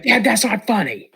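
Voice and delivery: put-on high, whiny kid voice; a frightened child protesting; scared kid. Boy telling dad the joke isn't funny, high and whiny.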